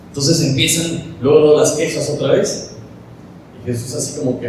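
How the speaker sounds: ordinary talk, nothing marked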